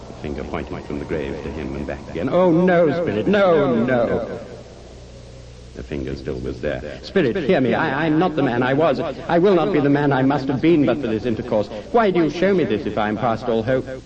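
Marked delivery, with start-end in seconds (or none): 2.3-4.4 high, loud cry of horror; anguished pleading. Acted. Scrooge to the spirit at his grave, anguished pleading. 7.0-13.9 high, urgent entreaty; desperate pleading. Acted. Scrooge begging the spirit to hear him, desperate pleading.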